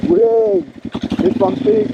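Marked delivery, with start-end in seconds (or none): 0.1-0.6 high gleeful whee. Real, not acted. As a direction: squeal with glee. Riding down a slope.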